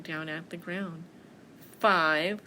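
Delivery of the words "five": loud puzzled bear. Acted. Bear hearing of a fifth apple, puzzled. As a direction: boom the number as a question.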